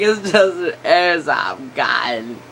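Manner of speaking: slow, strained cry of panic; panicked kid pleading with the cop; mock pleading shout. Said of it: "he's almost crying at this point".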